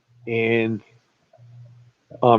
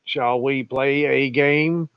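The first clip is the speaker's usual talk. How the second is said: computer voice; 3 dB quieter than usual. Retold or imitated. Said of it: "the quote is".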